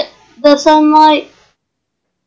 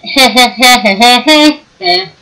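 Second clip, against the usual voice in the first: laughing. Real, not acted. Laughing at own joke.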